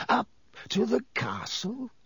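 sly silky mockery of a cornered enemy. A narrator's reading. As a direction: purr it with sly scorn. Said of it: "said Snape silkily".

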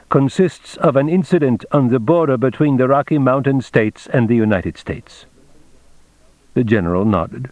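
lightly voiced formal captain; a hint of an officer laying out a plan; Baines, methodical briefing. Baines details the border plan to the general, lightly voiced briefing.

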